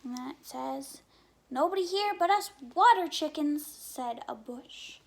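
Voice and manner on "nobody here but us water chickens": hidden sheep's voice. Acted. Sheep hiding in bush.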